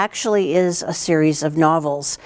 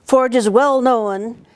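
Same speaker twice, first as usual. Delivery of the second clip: storybook reading; 3 semitones higher than usual. A narrator's reading. Teacher reads picture book aloud.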